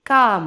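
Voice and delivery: കാം with a long aa into a nasal m; model pronunciation. Shown as a demonstration. Teacher showing how to pronounce it, long nasalised കാം. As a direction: draw out the vowel of കാം, closing on m. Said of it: "ഇങ്ങനെയാണ് ഉച്ചരിക്കേണ്ടത്".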